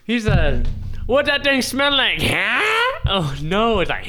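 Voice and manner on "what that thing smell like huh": swagger it like J-Rock; J-Rock impression. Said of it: "my best J-Rock impression".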